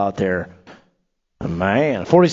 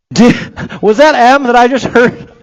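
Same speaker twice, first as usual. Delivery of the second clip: surprised laugh; 7 semitones higher, 7 dB louder, slower than usual. Real, not acted. Hears his kid cheering.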